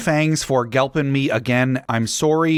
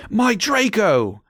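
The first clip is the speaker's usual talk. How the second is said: high, slow drawn-out wail; vampire moaning for his lost love; hammed-up moan; 10 semitones higher, slower than usual. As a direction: moan it out slowly, grieving. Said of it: "he moaned".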